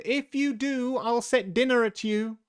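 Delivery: high, loud threat; full, high-pitched warning shout; shouting as loud as possible. A narrator's reading. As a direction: call it out to those outside. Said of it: "called out as loud as she could".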